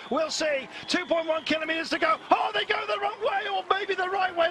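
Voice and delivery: building excitement as they near the line; excited commentary. Acted. Excited live play-by-play rising.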